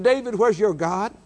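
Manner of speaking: mocking heathen. Heathen mocking David again.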